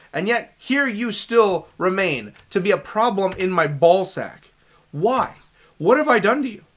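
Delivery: hammed-up exasperated speech; mock-dramatic lament. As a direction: protest grandly, as if wronged. Mock-dramatic complaint to game enemies.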